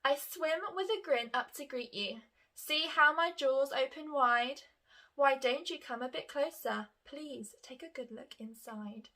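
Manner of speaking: lively, excited poem reading with a smile; enthusiastic reading. Shown as a demonstration. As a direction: read it with a grin, full of enthusiasm. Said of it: "sound a little bit more excited when I read it".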